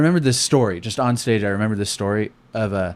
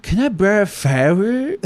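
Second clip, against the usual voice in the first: higher, slower put-on accent; Asian accent; 11 semitones higher, 4 dB louder, slower than usual. Comic retells the camper's question, lightly hammed accent. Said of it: "he was like".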